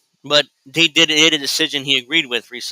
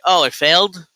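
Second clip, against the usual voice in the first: mock politician; 3 semitones higher than usual. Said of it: "and then it's like".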